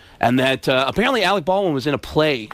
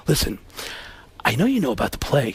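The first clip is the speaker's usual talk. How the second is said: a lower, hushed, earnest Baldwin; a man coming clean softly; Alec Baldwin impression; 3 semitones lower, 3 dB quieter than usual. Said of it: "Alec Baldwin".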